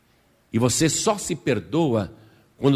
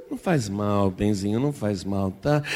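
soothing mother; 5 semitones lower than usual. Acted. Mother soothes crying daughter.

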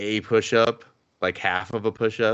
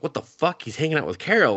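higher, jealous outburst in retelling; retold jealousy; 6 semitones higher than usual. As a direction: imitate someone indignantly jealous. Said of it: "she gets all jealous".

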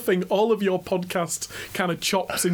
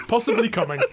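higher, amused ad slogan; mock tagline; 5 semitones higher than usual. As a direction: deliver it as a joke advert tagline. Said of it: "Which should be the tagline".

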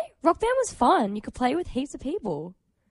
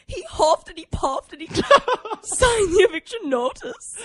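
Shrek quote; 9 semitones higher, 6 dB louder, slower than usual. Pretend. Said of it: "Okay, you ready?".

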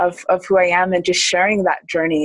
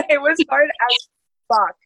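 laughing; 7 semitones higher than usual. Real, not acted. Repeats line after cursing, laughing.

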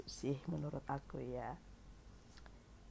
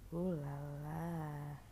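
drawn-out teasing; 2 semitones lower, much slower than usual. Real, not acted. Teasing reaction to a love line.

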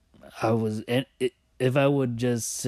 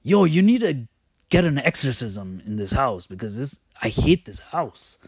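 mock yell; 4 semitones higher, 5 dB louder than usual. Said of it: "I was like".

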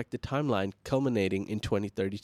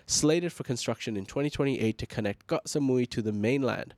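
steady news anchor delivery; news read. Acted.

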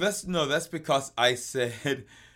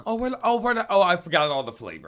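God as a clueless creator; 6 semitones higher, 5 dB louder than usual. Acted. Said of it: "God made an apple and went".

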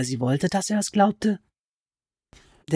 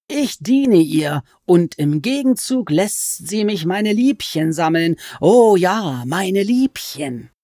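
high, slow, wheedling creature voice that climbs on each nein; sly goblin voice; 4 semitones higher, 4 dB louder, slower than usual. Acted. Goblin crouched over Alice, complaining she is a sorceress, in a high sly voice. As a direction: stretch the words like a gloating, sulky goblin.

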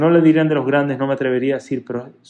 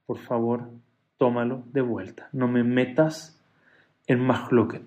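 softer, slow pleading as if near tears; tearful plea; 3 semitones lower, 6 dB quieter, slower than usual. Retold or imitated. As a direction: beg gently, holding back tears.

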